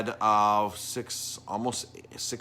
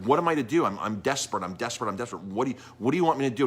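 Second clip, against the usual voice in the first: upset; 3 semitones higher, faster than usual. Retold or imitated. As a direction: imitate an upset man pleading, mildly acted. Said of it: "like, was really upset".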